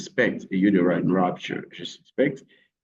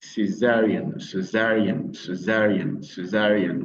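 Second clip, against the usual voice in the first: "césarienne" said English-style, stressed on ZA. Shown as a demonstration. Teacher drilling the word for learners, "césarienne" with stress on ZA. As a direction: punch the second syllable of "césarienne". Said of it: "Vous mettez l'accent sur".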